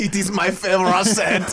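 laughing mock-French accent. Agreeing about the scent in French accent. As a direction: say it through a laugh, faking French. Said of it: "I'm stuck in French right now".

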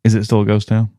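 playful whispered question; co-host whispering along. Pretend. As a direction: whisper back as if in a haunted place. Joining the ghost town whisper.

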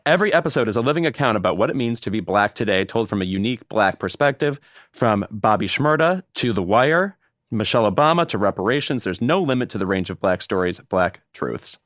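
steady earnest promo voice; promo read. Acted. Cohost finishes the NPR promo, earnest read. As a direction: present the series with conviction.

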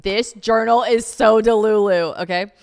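mock disbelief. Real, not acted. Mocking her old journal.

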